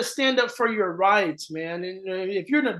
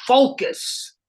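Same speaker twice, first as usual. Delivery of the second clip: calm Miyagi command; 4 semitones higher, much slower than usual. Retold or imitated. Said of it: "and he goes".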